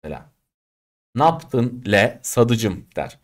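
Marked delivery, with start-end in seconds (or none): 1.1-2.9 Kütahya dialect. Retold or imitated. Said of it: "Kütahyalılar şöyle konuşur".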